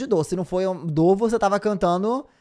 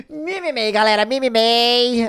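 laughing echo; 3 semitones higher, 4 dB louder, slower than usual. Retold or imitated. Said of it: "echoes the friend's cry".

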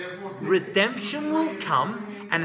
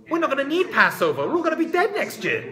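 loud, high, desperate protest; urgent outcry; 8 semitones higher, 5 dB louder than usual. Acted. Esther protesting to Mordechai that all will die, loud and high. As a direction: cry it out as if doom is certain.

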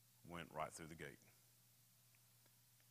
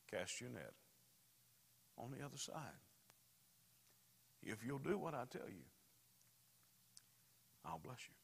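calm assurance; 4 semitones higher, 3 dB quieter than usual. Acted.

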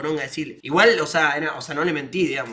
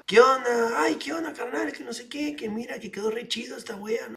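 Mexican jeweler; 5 semitones higher than usual. Retold or imitated. Jeweler voiced, high.

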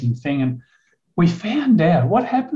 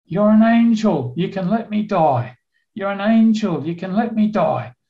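higher, insistent begging; retold pleading; 5 semitones higher than usual. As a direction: imitate a confused man imploring his rescuer. Confused injured man pleading with rescuer.

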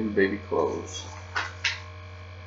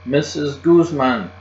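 louder, slow holler of the name; a kid hollering the name at Mother, louder and slow; 5 semitones higher, 5 dB louder, slower than usual. A narrator's reading. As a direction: call the name out loud. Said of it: "I hollered".

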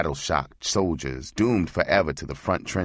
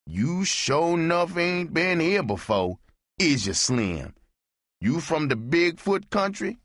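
high, teasing barfly voice ribbing the stranger; much higher put-on voice, needling the new guy; Amos teasing newcomer; 12 semitones higher than usual. Amos needles the newcomer at the bar, high mocking voice. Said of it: "Amos said".

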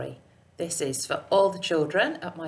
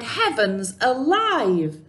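mock despair of an old lady; lightly hammed-up old lady at her wits' end; dismayed cry; 5 semitones higher than usual. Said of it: "The little old lady cried".

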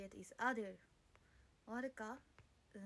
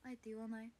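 usual speaking voice

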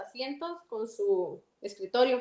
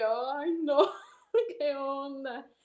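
embarrassed laugh; much slower than usual. Retold or imitated. Flattered, retells her embarrassed reply.

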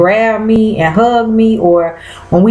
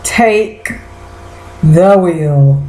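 dramatic churchy plea, drawn out; mock plea to Jesus; 3 semitones lower, much slower than usual. To the viewers, a mock prayer for help. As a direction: beg like the car is crashing. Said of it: "I said".

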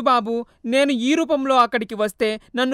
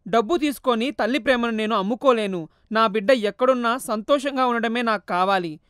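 tearful plea; 3 semitones higher, 6 dB louder than usual. Acted. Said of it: "కన్నీరు కార్చింది".

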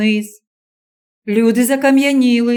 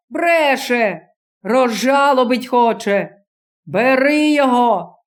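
put-on vengeful old man. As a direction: whip the crowd against him. Old man incites the crowd.

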